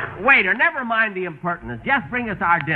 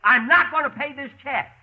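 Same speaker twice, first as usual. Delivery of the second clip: indignant, raised pitch demands; entitled customer; 2 semitones higher than usual. Acted. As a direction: boss the waiter around, outraged. Demands manager, refuses check.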